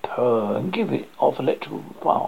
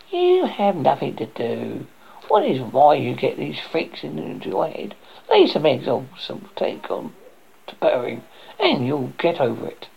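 fussy hen voice. Acted. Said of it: "she asked".

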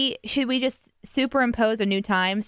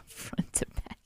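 laughing; 15 dB quieter, slower than usual. Real, not acted. Laughing while repeating partner's words.

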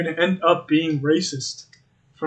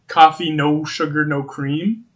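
slow explaining; slower than usual. Retold or imitated. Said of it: "The barista's like".

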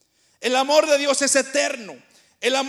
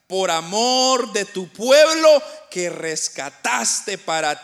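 slow, louder, declaiming each phrase; solemn scripture reading; 4 dB louder, slower than usual. Acted. Preacher reading Second Samuel to congregation, slow and solemn. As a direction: read the verse like a proclamation. Reads Bible verse aloud.

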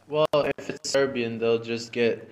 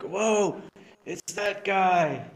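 surprised; 6 semitones higher, much slower than usual. Retold or imitated. Voicing a delighted fan.

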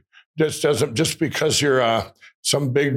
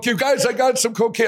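retold calling out; 8 semitones higher than usual. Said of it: "I really yelled at him".

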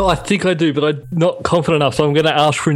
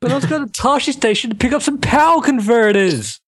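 put-on whiny teen, pitched up; 5 semitones higher than usual. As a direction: whine it like a sulky teenager. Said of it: "Say it in a whiny voice".

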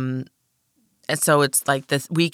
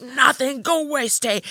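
put-on high, guilty little girl brushing him off; defensive kid; 10 semitones higher, slower than usual. Girl hiding candy from her brother, high defensive kid voice. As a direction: shoo him away like a caught kid. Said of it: "And I was like".

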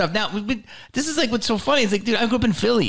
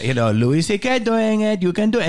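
pitched-up imitation of a pushy club owner; Jamie Masada; 4 semitones higher than usual. Club owner courting a comic, imitated coaxing. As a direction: urge it on in mock broken English. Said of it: "Jamie's like".

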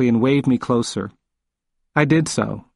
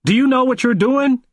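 higher, insistent repeat; 12 semitones higher, 3 dB louder than usual. A narrator's reading. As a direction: push it harder the second time. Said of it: "wagged his finger at me and asked again".

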